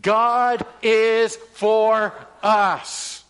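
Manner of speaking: each word drawn out and punched, GOD loudest; emphatic slow declaration. Shown as a demonstration. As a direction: preach it slowly for the church to echo. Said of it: "Say that with me".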